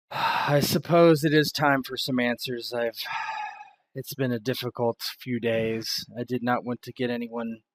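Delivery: loud, tired confession; burdened woman finally speaking up; weary Miranda. Acted. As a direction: sigh into it, reluctant to explain. Miranda voiced after sighing.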